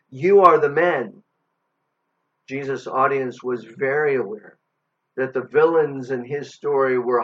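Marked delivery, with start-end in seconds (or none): 0.1-1.2 loud, pointed accusation; accusatory declaration. Acted. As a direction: declare it firmly, hitting "You". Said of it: "point a finger and declare".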